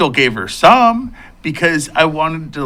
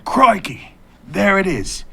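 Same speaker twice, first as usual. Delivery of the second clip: higher-pitched Australian wildlife-spotter voice; Australian accent; 4 semitones higher, slower than usual. Pretend. Joker dodging the censors, hammed-up Australian accent. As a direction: put on a mock Australian accent. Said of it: "Just say it in an Australian accent".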